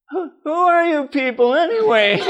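high, laughing, astonished question; a stunned stranger, voice jumping up; amazed hitchhiker. Retold or imitated. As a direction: ask it half-laughing in disbelief. Amazed hitchhiker asks who they are.

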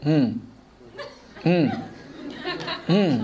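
low "Hmm" hums with long pauses; her hmm mannerism. Shown as a demonstration. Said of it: "mannerism of, of respond like".

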